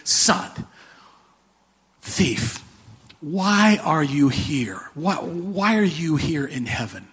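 the angels finally turning to ask the thief why he is here. Retold or imitated. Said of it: "turn to him and say".

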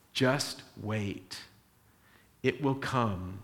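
low, soft, calm promise; God quietly soothing the prophet; gentle reassurance. Retold or imitated. God answers Habakkuk gently.

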